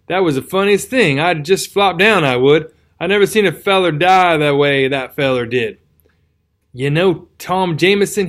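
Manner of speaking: rustic old soldier, lightly voiced; tattered soldier voice.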